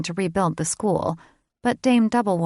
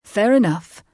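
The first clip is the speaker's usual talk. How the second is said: proud fae lord; 3 semitones higher, 7 dB louder than usual. A narrator's reading. Father proudly introducing himself to his daughter, grand and loud. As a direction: puff up and declare it. Brain's voice.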